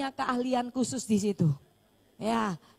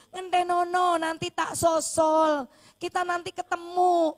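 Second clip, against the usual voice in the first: loud, higher, slow pleading farewell; wife's farewell; 5 semitones higher, 3 dB louder, slower than usual. Retold or imitated. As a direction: let him go, loud and drawn out. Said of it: "dia bilang gitu".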